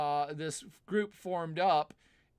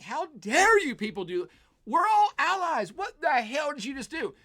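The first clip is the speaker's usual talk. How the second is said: indignant Macron; 9 semitones higher, 6 dB louder than usual. Retold or imitated. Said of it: "Macron got pissed off and was like".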